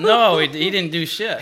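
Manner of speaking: loud, high-pitched protest; outraged objection. Real, not acted. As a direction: object hotly to the ruling. Disputes who wins the hole.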